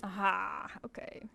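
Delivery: quiet whisper to herself. Real, not acted. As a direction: murmur while concentrating.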